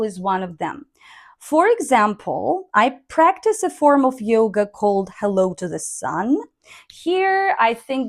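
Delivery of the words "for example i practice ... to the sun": "For example" rising, "Sun" rising at the end; rising intonation demo. Shown as a demonstration. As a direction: lift "Sun" to show the idea is finished. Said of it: "So that's why I put sun, like rising tone".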